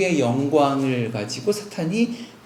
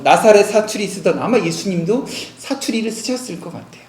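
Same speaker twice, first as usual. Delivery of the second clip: mock scorn; 3 semitones higher, 4 dB louder than usual. Jewish leaders scorn Jesus' humble origins.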